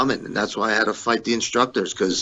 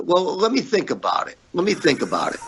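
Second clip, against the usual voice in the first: mocking the boss; 9 semitones higher than usual. Wrestler mimics his boss putting off the shirt deal, mocking. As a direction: imitate the boss brushing him off, high. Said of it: "And he goes".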